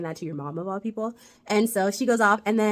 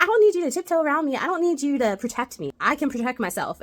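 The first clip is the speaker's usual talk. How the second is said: mock angry retort; 6 semitones higher, 3 dB louder than usual. Rory snapping at Lane.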